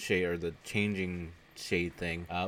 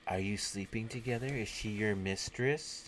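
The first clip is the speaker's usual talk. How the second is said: whispery voice; 5 dB quieter than usual. Retold or imitated. Hidden killer questions the boyfriend, mock whispery voice. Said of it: "we hear the whispery voice being like".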